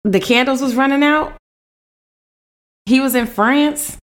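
high-pitched, baffled disbelief; incredulous questions. Real, not acted. Co-host baffled by the history article, incredulous. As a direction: question it as if none of it adds up.

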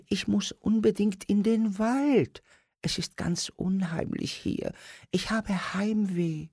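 very high, thin little puppet voice; a tiny dwarf longing for the forest; homesick dwarf. A narrator's reading. Homesick dwarf tells Simon of the forest, very high.

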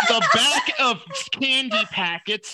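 laughing through the words. Real, not acted. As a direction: laugh while you protest. Laughing protest.

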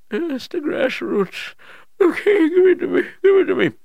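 high, loud frantic pleading; desperate old king. Acted. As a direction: beg for the grass like a dying king. King eager for grass.

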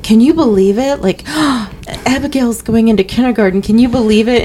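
mock amazement with a gasp; gushing parent. Parent telling of Abigail going into kindergarten, gushing. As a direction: lightly imitate a marvelling parent, quick and eager. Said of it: "when people will say".

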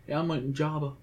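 a hint of a bad celebrity impression; lightly put-on voice, badly imitated; Woody Harrelson. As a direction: toss off a hopelessly poor impression. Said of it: "That was my worst Woody Harrelson impression ever".

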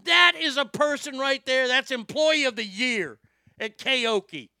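amazed admiration, near shouting; excited rave. Real, not acted. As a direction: hype her up in disbelief. Raving about anchor's toughness.

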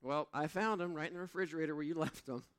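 mock wife teasing about the keys; imitating wife. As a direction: tease him like the amused wife. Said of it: "She said".

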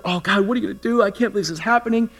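mock grumble, pitch climbing as it goes; grumbling. Pastor acting out his own panicky prayer, grumbling. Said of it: "So I go to grumble".

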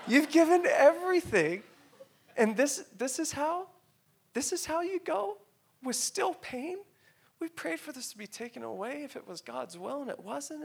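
very high, choked-up and pleading; real tearful protest. Real, not acted. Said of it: "forgive me if I tear up".

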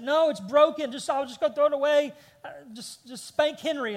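mock a kid's worked-up refusal; hysterical child. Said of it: "just hysterical, emotional, over and over again".

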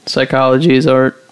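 a real crack in the voice. Real, not acted. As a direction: voice cracks mid-word. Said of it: "My voice just cracked".

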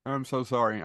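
talking through a yawn; sleepy, mid-yawn apology. Real, not acted. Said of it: "I keep yawning".

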